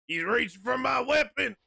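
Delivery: loud, high, panicked shout; alarmed shout. Real, not acted. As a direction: yell it out in alarm. Enemy grabbing for his gun.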